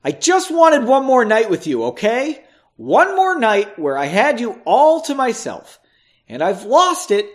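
high, loud, upset outburst; yelling. A narrator's reading. Margot whipping round on Henry, upset yelling. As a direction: let it burst out, pitch and volume up. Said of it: "she yelled".

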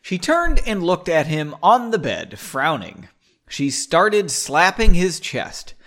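loud, emphatic read-aloud; story narration. A narrator's reading. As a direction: punch up the action as you narrate. Reads the novel aloud.

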